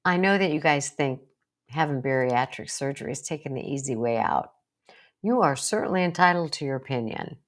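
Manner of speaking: calm, kind reply; speaking kindly to relatives, calm. Shown as a demonstration. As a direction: answer kindly and steadily. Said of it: "you kindly say".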